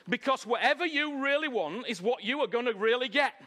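emphatic preaching. Real, not acted. Preacher drives the point home.

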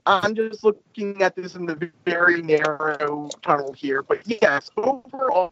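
hollow, distant call audio; like talking down a tunnel; echoing tunnel. Real, not acted. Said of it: "You do sound like you're in a narrow tunnel at the moment".

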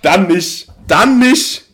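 high, loud mock despair; dramatic wail. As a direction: wail it like a heartbroken kid. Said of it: "Und da war ich direkt so".

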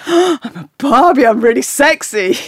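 high, loud ditzy doll; Barbie voice. Retold or imitated. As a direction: coo it like a vain doll. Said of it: "half going".

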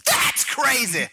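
high, slow wrestler catchphrase; Randy Savage. Pretend. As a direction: butt in like a hammed-up pro wrestler. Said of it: "Randy Savage butted in with his two words".

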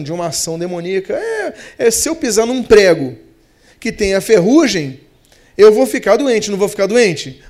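ordinary delivery

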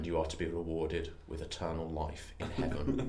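low, soft, grave pronouncement; solemn alien messiah. Acted. Bean rewarding John at Christmas's end, mock-solemn and low. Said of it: "I've become a cult leader".

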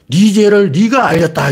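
slow, high, booming magistrate's accusation; Joseon magistrate. Retold or imitated. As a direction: play the old-time magistrate demanding a confession. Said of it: "조선시대 사또들이 권장치는 수법".

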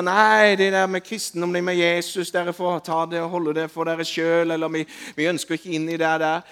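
loud, dismissive refusal; dismissive crowd. Retold or imitated. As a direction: brush it off like the unwilling crowd. People rejecting Christianity, voiced. (avvisende, høyt «nei»)

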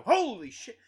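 loud high startled "Holy shit"; startled yelp. Retold or imitated. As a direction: jump out of your skin. Startled at the gas pump.

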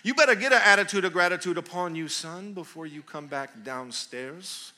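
loud, fast parental lecture; stern parent scolding. Acted. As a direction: tell off your son, then soften. Parent scolding son, acted.

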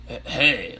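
tentative guy voice for a clown; a hint of a male character voice; Pennywise. Shown as a demonstration. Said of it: "I'll do Penny voice kinda like".

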